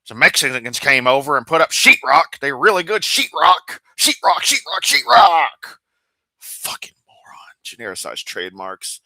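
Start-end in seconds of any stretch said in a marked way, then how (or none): 0.0-2.4 louder mock Kent Hovind voice; Hovindese. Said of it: "say it in Hovindese". 2.4-5.8 mocking Kent Hovind, pitch climbing high; Hovindese. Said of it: "say it in Hovindese". 6.4-7.5 whispered insult under the breath. Real, not acted. Insult aside after impression.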